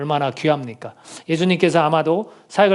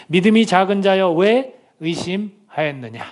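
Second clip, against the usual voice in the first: stern rebuke; 3 semitones higher, slower than usual. Retold or imitated. Jesus rebukes Peter.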